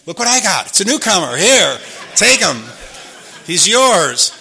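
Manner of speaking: laughing handoff. Retold or imitated. Proudly hands newcomer to friends.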